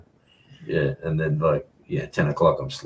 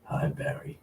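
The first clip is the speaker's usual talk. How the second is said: breathy whispered greeting; 10 semitones higher, 9 dB quieter than usual. Shown as a demonstration. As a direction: whisper it softly. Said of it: "Gotta get lower".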